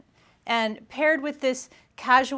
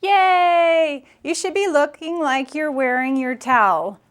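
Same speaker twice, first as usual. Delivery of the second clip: higher, louder put-on voice with a cheery "Yay!"; imitating the French girl, bright and much louder; 3 semitones higher, 7 dB louder than usual. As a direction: play the delighted Parisian giving advice. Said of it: "She says".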